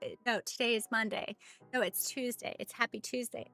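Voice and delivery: retold parent's mild correction; correcting parents. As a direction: patiently correct a toddler, quietly. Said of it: "me and my husband have to go".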